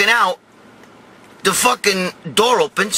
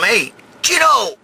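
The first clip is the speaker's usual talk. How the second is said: drawn-out shout of a name; calling out; 3 semitones higher, slower than usual. Retold or imitated. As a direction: call slowly through a stall door. Calling to cousin in the stall.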